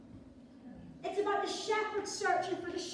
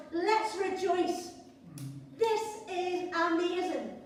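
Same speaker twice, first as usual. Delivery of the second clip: sing-song celebrating; slower than usual. Pretend. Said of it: "comes back and he goes".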